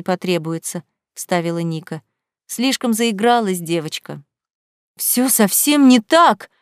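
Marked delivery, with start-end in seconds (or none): 5.0-6.5 slow, loud despairing cry; desperate cry. A narrator's reading. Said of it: "в отчаянии крикнула Вера".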